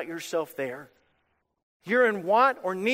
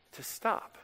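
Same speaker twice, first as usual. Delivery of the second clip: hushed, breathy whisper on the last words; 3 semitones higher, 9 dB quieter than usual. Acted. Preacher telling the church where God leads, whispered. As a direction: drop to a whisper to make them lean in. Preacher softens God's leading.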